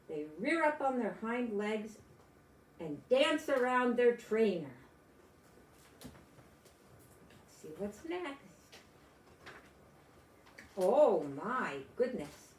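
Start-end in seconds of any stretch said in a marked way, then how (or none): 6.0-8.4 breathy whisper, slow and hushed; whispered aside. Real, not acted. Aside while turning the page.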